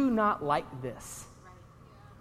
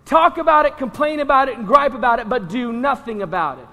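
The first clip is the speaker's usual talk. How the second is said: mocking repeat; 7 dB louder than usual. Shown as a demonstration. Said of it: "I call that being a pansy".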